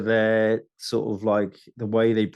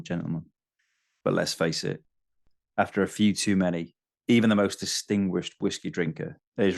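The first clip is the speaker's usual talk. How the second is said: really dry, lower stand-up delivery; Stuart Lee; 3 semitones lower than usual. Acted. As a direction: read it drily, low and measured, with pauses between phrases. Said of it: "do it in a really dry voice and it'll be Stuart Lee".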